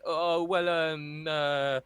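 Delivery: high, fumbling mimic; mock clueless fan. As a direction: play a fan who can't name anyone. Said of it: "typical Man United fan".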